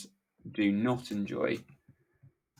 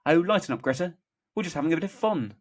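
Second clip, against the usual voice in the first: higher, breezy, smirking tease; put-on cheeky character voice; Jimmy; 6 semitones higher, 6 dB louder, faster than usual. A narrator's reading. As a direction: brush it off with a smirk. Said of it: "Jimmy, smirking".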